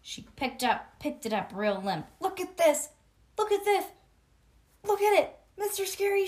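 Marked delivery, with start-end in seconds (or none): 2.2-6.3 loud, high whiny tattle; high loud complaining girl; tattling yell. Acted. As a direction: shout it to the teacher. May tattling loudly.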